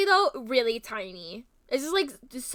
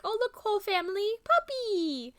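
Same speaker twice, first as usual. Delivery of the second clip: mock announcement; 9 semitones higher than usual.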